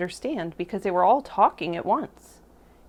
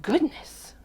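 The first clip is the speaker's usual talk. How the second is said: higher-pitched startled exclamation; startled frogs; 6 semitones higher than usual. A narrator's reading. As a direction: exclaim it in mild shock.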